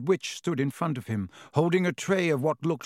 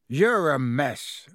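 slow, louder gruff giant voice; 4 dB louder, slower than usual. Acted. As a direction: rumble it out slowly and roughly. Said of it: "said Hagrid gruffly".

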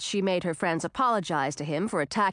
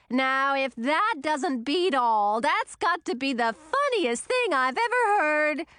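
amused chortle; 6 semitones higher than usual. A narrator's reading. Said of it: "the Blue Witch chortled".

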